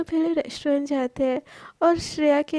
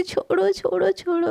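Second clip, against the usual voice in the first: tickled protest; 4 semitones higher than usual. Acted. Shreya being tickled.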